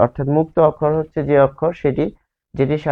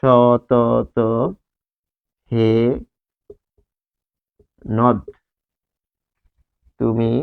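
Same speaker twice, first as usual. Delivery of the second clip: each word set apart by long pauses; word-by-word reading; much slower than usual. Shown as a demonstration. Teacher reads the poem line to students, word by word. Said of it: "একটা line লিখব".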